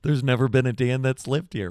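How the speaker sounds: loud, insistent stranger at the door; a mock-emphatic resident who's never heard of Dan; retold loud denial. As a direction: bark it back like it's obvious.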